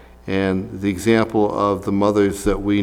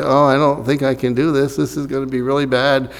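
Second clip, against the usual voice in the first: slightly higher, hurried imagined complaint; mock whining; 3 semitones higher than usual. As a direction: mildly imitate a worried whiner. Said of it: "didn't complain and whine and say".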